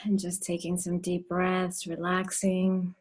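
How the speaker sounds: slow, drawn-out meditation voice; guided meditation. Real, not acted. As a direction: ease them into relaxing, word by word.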